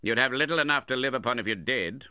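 loud, high-pitched sneering retort; contemptuous retort. A narrator's reading. Uncle retorts to his penniless nephew, contemptuous. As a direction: throw it back with contempt. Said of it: "eyeing him contemptuously".

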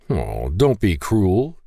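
slow, drawn-out pouting plea; hammed-up sulk, slowly; mock pout. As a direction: stretch it out like a sulking boy. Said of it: "Ben pouted".

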